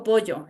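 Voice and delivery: "pollo" with the highland double-L sound; Sierra-style double L in "pollo"; highland pronunciation. Shown as a demonstration. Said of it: "escuchen mi fonema".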